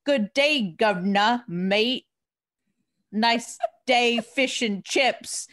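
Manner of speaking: mock British accent, Tebow-style tourist; a hammed-up fake British accent, high and bright; terrible British accent. Imagining Tebow greeting Londoners in a bad British accent. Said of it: "with a terrible British accent".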